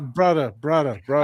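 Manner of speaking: put-on a light, loose send-up of that goofy wrestler accent; mock Chael Sonnen accent. Co-host mocking the fighter's goofy accent, light imitation. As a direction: lightly parody the goofball accent. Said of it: "goofball accent thing".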